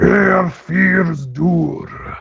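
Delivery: rumbling giant voice. Voicing a frost giant shouting from behind the walls: rumbling shout in Giant. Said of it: "he shouts".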